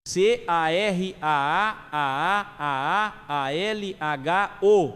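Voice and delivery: slow, stretched cry of delight, every vowel held long; drawn-out exclamation. A narrator's reading. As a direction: let the swear word spill out slow and long in amazement. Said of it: "não se conteve e exclamou".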